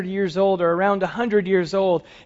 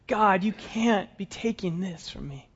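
softer, pained inner plea; hushed anguish; 8 dB quieter than usual. Acted. Abraham silently pleading with God, soft and pained. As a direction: say it under your breath, grieving.

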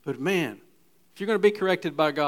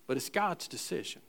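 soft emphasis; 9 dB quieter than usual. Shown as a demonstration. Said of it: "You see".

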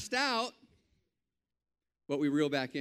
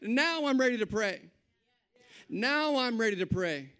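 bold prayer; 5 semitones higher than usual. Retold or imitated. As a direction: pray it boldly like you mean it. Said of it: "You come up".

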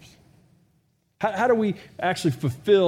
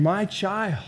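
tender father. Acted. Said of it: "He's saying".

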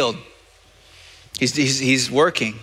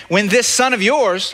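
indignant whine; 7 semitones higher, 3 dB louder than usual. Retold or imitated. Older son complaining to father.

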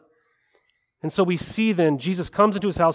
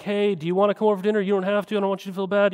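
rushed, higher, overly polite; a fast, higher passive aggressive invite; mock polite invite; 4 semitones higher, much faster than usual. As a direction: gush the invitation fast to sound harmless. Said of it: "We're like".

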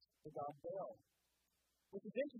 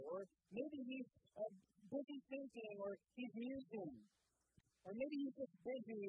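mocking taunt; 4 semitones higher than usual. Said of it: "He begins to taunt them".

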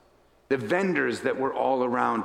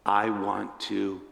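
soft, halting plea; tearful; 5 semitones lower, 4 dB quieter, slower than usual. Acted. Kneeling blind Bartimaeus answering Jesus, hushed tearful plea. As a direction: say it quietly and slowly, pausing before the last word. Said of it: "with tears rolling down his face".

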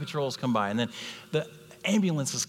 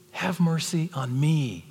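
calling the church to pray; urgent plea; 4 semitones higher, slower than usual. Shown as a demonstration. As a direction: cry out for mercy. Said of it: "That's the attitude".

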